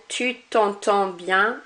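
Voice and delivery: slow demo, "t'entends" ending on the nasal vowel; "t'entends" said with no final consonant; silent D or S. Shown as a demonstration. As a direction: leave D and S off the end of "t'entends". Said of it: "Not pronouncing that D or S".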